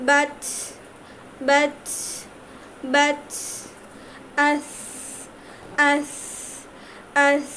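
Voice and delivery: each syllable from "বাচ" to "আহ" closed on a vowelless final sound, a long pause after each; sukun drill. Shown as a demonstration. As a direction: recite syllables like "আস" one by one, holding the last sound. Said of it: "জজমের উচ্চারণের সময় মাখরাজ মিলিত হয়ে যায়". ("বাচ", "আস", "আল" থেমে থেমে, শেষ অক্ষর মিলিয়ে)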